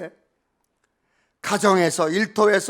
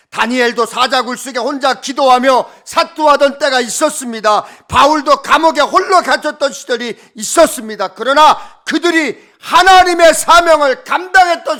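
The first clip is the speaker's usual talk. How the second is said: preaching at full force; 4 semitones higher, 9 dB louder than usual. Acted. Preaching climax, loud, high.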